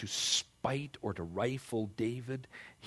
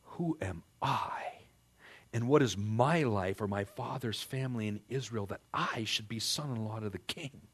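humble David. Retold or imitated. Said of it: "David said to Saul".

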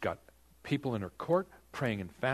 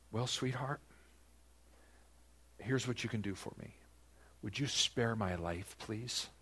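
sweet plea; 7 dB quieter than usual. Retold or imitated. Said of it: "That's how it really would have sounded".

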